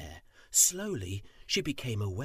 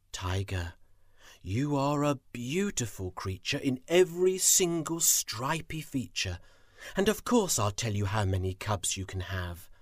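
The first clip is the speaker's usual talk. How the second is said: soft and gentle. Acted. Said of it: "spoke softly and gently".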